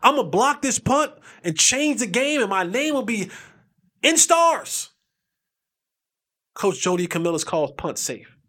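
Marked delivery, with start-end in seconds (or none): 4.0-4.9 dreamy boast. Retold or imitated. Dreaming of glory.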